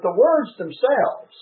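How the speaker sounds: "words" stressed in contrast, "themselves" lifting at the end; weight on "words", rising close on "themselves"; emphatic stress on "words themselves". Real, not acted. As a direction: stress "the words themselves" against what came before. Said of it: "I want to emphasize the words".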